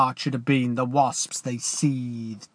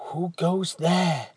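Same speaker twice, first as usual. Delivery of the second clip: demanding; 6 semitones higher, slower than usual. Acted. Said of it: "demanded the approaching voice again".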